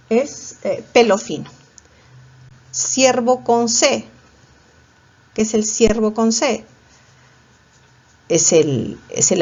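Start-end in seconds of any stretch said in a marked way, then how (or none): 2.7-4.0 slow dictation. Shown as a demonstration. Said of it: "dictating the spelling".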